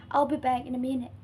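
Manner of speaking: statement with falling end on "minute"; falling intonation. Shown as a demonstration. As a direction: pitch drops at the end on "minute". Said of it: "pitch of voice drops at the end".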